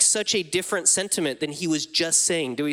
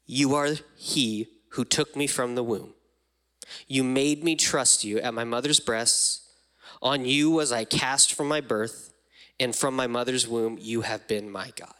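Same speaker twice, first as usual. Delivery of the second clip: pulling back; 3 semitones lower than usual. Acted. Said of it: "let me pull back again".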